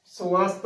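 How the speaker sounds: ਸਵਸਥ said su-ast, short u after the first ਸ; correct pronunciation. Shown as a demonstration. Teacher models the word for learners, ਸਵਸਥ as su-ast. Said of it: "ਸਵਸਥ ਉਚਾਰਨ ਇਸ ਦਾ".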